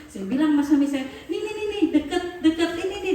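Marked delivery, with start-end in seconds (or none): 1.3-3.1 high, quick excited urging; high-pitched, hurried "look here" voice; eager. Retold or imitated. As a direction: excitedly point out a find. Eagerly showing husband a find.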